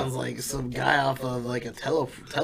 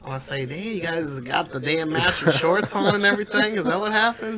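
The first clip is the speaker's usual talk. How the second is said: higher, louder hammed-up redneck twang; 4 semitones higher, 6 dB louder than usual. Mocking Kentucky redneck voice.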